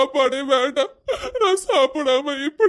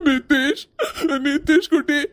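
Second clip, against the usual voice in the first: tearful. Acted. Father moved by son's love.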